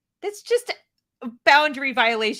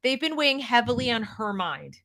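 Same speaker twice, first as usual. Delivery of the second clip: mocking repeat. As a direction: repeat her words with mock gravity. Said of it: "go seek therapy".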